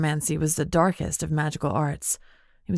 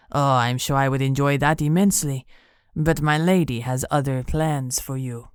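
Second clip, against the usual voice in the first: lower, silky amused menace; lower, enjoying her anger; smug villain; 3 semitones lower than usual. Acted. Benito amused.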